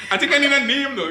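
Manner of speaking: high, laughing; giggling through it. Real, not acted. Laughing as he speaks.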